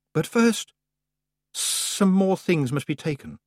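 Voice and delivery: haughty goddess voice. Acted. Summer Lady voice.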